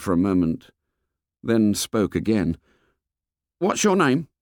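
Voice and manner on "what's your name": put-on fat boy voice. A narrator's reading. Fat boy complains to the fair boy, high and whiny. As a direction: complain like a chubby schoolboy.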